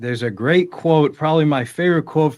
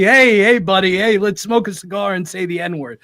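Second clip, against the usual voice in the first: mock buddy; 5 semitones higher than usual. Mocking fake buddy greeting.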